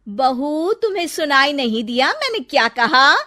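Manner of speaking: stern rebuke to the daughter-in-law; stern scolding. Acted. Mother-in-law scolding bahu.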